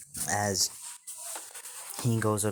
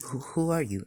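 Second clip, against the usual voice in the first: higher, wary stuttered question; nervous stammer; 5 semitones higher than usual. Acted. Boy pulls away from a hugging stranger, nervous stammer. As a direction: trip over the first word, unsure.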